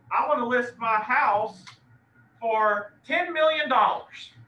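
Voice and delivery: a hint of a stubborn seller, drawn out; client voiced. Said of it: "Miss Leela tells me".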